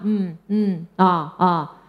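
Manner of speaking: bored, half-listening grunts; dismissive grunts. Retold or imitated. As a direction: brush her off with grunts. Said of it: "她就这样". (妈妈敷衍地嗯啊回应，心不在焉)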